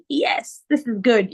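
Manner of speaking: high-pitched retold yes; super excited. Daughter hearing she will go to university, excited. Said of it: "I was super excited".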